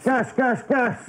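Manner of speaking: high-pitched practice shout. Pretend. Trainee shouts gas warning for the instructor, shouting. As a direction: shout the drill warning from inside a mask. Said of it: "but shout it".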